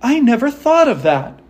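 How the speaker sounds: high, delighted little heroine; joyful Dorothy. A narrator's reading. Dorothy hearing the Scarecrow's idea, high and joyful. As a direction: lift the voice high with glad discovery. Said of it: "said Dorothy joyfully".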